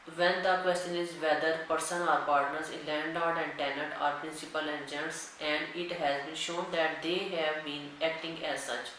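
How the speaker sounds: dictating a legal section to students at x0.3; slow, deliberate reading of the act; slow statute dictation. Acted. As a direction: read the law word by word, very slowly. Reads the statute text aloud.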